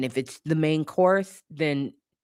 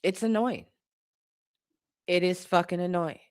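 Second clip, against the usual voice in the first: pitched-up exasperated whine; 5 semitones higher than usual. Real, not acted. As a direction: whine it out, fed up. High exasperated outburst.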